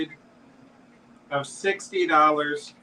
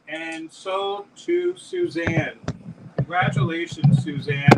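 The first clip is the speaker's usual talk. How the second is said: excited announcement; 11 semitones higher, 3 dB louder than usual. Real, not acted. Closing the auction sale.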